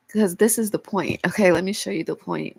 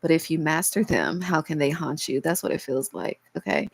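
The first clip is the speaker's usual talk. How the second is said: cracking voice, fighting back tears. Real, not acted. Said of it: "If y'all hear my voice cracking, it's 'cause I'm trying not to cry".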